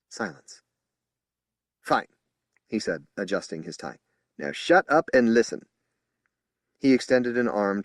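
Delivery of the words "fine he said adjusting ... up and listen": stern. Acted. Spokesman silencing the officers.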